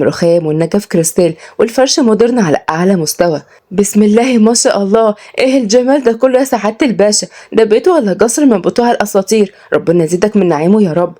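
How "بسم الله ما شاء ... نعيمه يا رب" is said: higher-pitched village woman marvelling; awestruck. Acted. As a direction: gush in admiration with a Sa'idi lilt. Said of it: "بانبهار شديد". (صعيدية منبهرة بصوت أعلى)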